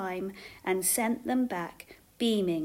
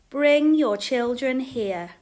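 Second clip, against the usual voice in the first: loud, slow, stretched call; 3 semitones higher, 8 dB louder, slower than usual. A narrator's reading. Jesus inviting the family back, calling out. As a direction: call them over across a crowd. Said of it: "Jesus called".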